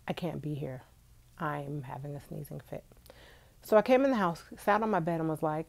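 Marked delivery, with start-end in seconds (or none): 0.1-2.8 whispered complaint. Retold or imitated. Retold moment on the patio.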